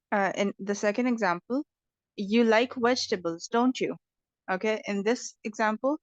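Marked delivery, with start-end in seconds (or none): 2.2-4.0 "don't you" rising slightly, asking for an answer; rising tag question. Shown as a demonstration. Teacher showing a tag question that expects a reply, rising tune on "don't you". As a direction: lift the tag as if waiting for a reply. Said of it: "you are waiting for the other person's response".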